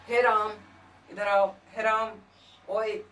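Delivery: calling someone from afar, stretched vowels; stretched calling shout. Shown as a demonstration. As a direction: call out loudly to Ram across a distance. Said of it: "चिल्लाने या बुलाने में".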